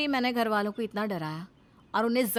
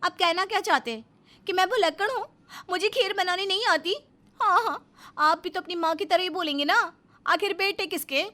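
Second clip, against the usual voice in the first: angry outburst; 7 semitones higher, 5 dB louder than usual. Acted. Wife quarrels with husband over kheer.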